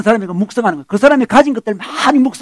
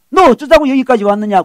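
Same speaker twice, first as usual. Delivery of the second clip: lightly acted rebuke, pitch raised; mild mock scolding; 4 semitones higher than usual. Eliab rebukes his younger brother David, imitated scolding. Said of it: "꾸짖습니다".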